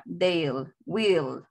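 "Dale, will", each a single falling syllable; one beat each for "Dale" and "will"; una sola sílaba. Shown as a demonstration. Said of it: "una sílaba". ("Dale, will", una sílaba cada una)

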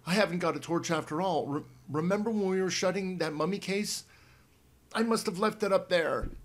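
a little shaky. Acted. Boy admitting lost torch in dark, a little shaky. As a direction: rush it out, mildly rattled. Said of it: "Pete sounded a little shaky".

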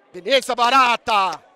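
loud, slow, stretched-out cheer; real fan yell; shouted approval. Real, not acted. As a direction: holler praise to a player. Cheering a player.

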